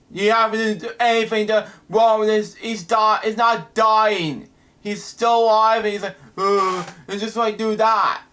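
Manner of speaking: high, agitated protest; upset rant. Real, not acted. Reviewer protests the villain's death in a high rant.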